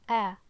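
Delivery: "a" as one short, forceful open vowel; demonstrated alif sound. Shown as a demonstration. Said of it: "So it's pronounced like a".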